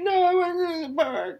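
imitating a high, loud whining kid; mock-cry like a sulky little boy; whiny child. Son whining about the park.

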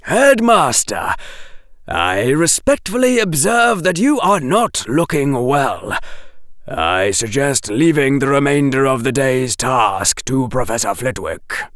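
formal professor addressing his superior; lightly voiced pointed, measured advice; Professor Quirrell. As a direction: open high and emphatic, then settle.

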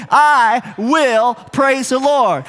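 slow, spaced-out line to repeat; leading a recitation. Shown as a demonstration. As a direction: draw out "I will" for everyone to join. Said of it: "Can you say that with me".

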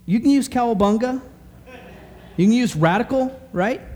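hyped up. Acted. Preacher hyping nineties slang.

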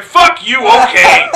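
loud, high mock shout; yelling owner. Bar owner shouting then agreeing, loud and high. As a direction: spit it out then give in. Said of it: "The guy's like".

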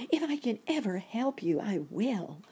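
high, tiny creature voice; little ant voice. A narrator's reading. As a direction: promise it in a small high pipe. Grateful ant promises help.

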